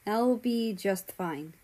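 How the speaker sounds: slow, soft reassuring promise; quiet reassurance. Acted. Brother reassuring his little sister, slow and soft. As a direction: comfort her gently, slowly. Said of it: "he quietly said in a reassuring tone".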